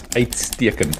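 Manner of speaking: uitstekend said slowly as AYT-steer-kend; teaching the word uitstekend syllable by syllable; Afrikaans word uitstekend. Shown as a demonstration. Teaching co-host an Afrikaans word, slow careful pronunciation. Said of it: "the Afrikaans word I want to teach you is".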